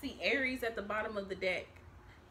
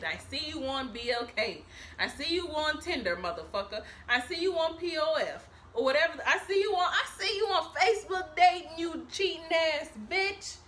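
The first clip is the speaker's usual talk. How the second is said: mock furious call-out; 4 semitones higher, 4 dB louder than usual.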